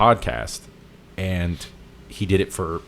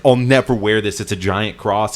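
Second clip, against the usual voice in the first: mild mock protest, raised at the start; half-hearted imitation of freaking out; retold freak-out; 4 dB louder than usual. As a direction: imitate a friend refusing in a fluster. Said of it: "he starts freaking out on him".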